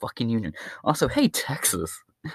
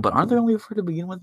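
quick, high mock question from a listener; voicing a smart-aleck listener; 8 semitones higher, much faster than usual. Podcaster mimics listeners objecting, fast and high. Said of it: "some of you are like".

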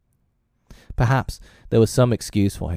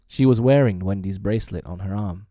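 usual speaking voice

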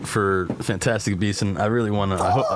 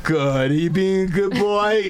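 much higher, slow doting grandma; 9 semitones higher, slower than usual. Acted. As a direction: dote like a grandma. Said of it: "doing my own grandma voice".

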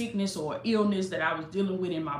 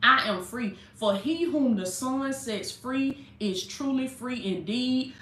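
proclaiming freedom; 4 semitones higher than usual. Shown as a demonstration.

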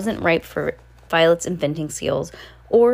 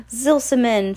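put-on baby shriek; 5 semitones higher, 3 dB louder, slower than usual. A narrator's reading. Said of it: "Sunny shrieked".

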